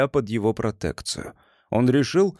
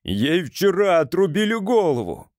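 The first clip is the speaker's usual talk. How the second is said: exclaiming; 6 semitones higher than usual. A narrator's reading. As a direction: blurt it out in horror. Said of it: "воскликнул офицер".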